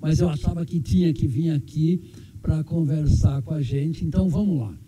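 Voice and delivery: numb mouth after surgery; talking with an anesthetized mouth; numb from the dentist. Real, not acted. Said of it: "ainda tô com o efeito da anestesia". (boca dormente da anestesia)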